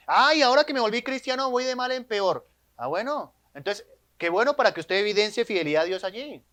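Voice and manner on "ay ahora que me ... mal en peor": mock whiny complaint. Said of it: "¿ha escuchado usted eso?".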